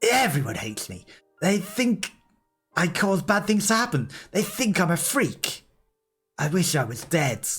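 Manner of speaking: high, tearful despair. Acted. Kaine tells her grandmother everyone hates her, tearful. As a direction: plead through tears. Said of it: "Her tears ... finally began to fall".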